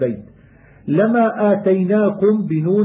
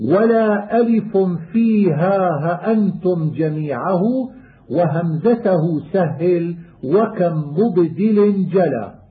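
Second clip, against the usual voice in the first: poem recitation; slower than usual. Acted. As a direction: recite the rhymed line like a student of qira'at. Chanted verse of the poem.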